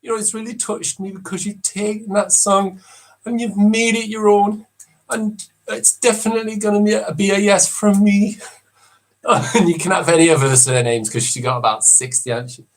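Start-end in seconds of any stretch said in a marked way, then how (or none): 0.0-8.4 higher, gushing judge voice; touched TV judge praising; talent show judge. Acted. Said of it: "Number ten".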